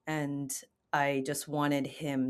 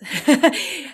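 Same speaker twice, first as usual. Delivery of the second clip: sudden high, loud burst of laughter; real laugh, higher and louder; 12 semitones higher, 12 dB louder than usual. Real, not acted. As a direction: break the tension with a big laugh. Laugh closing a serious story.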